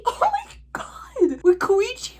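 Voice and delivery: high, tearful voice cracking while recalling Koichi's death; breaking into tears. Real, not acted. A fan recalling Koichi's death, crying for real. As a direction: choke up as the memory hits. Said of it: "I'm gonna start crying".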